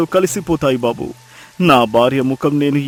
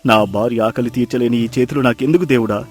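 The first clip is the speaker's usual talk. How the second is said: anguished lament, swinging between low and raised; wailing in despair; 9 semitones lower, 8 dB louder than usual. Acted. Fisherman on his knees in mud blaming himself, wailing in despair. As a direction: cry out to God in self-disgust. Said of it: "బోరున విలపించాడు".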